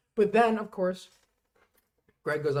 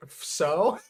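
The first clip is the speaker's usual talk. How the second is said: laughing mock shrug; 3 semitones higher, 6 dB louder than usual. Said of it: "He's like".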